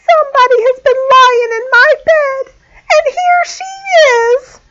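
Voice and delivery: very high little bear, loud; wee little voice. A narrator's reading. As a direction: squeal it out like a tiny cub. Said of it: "in his wee little voice".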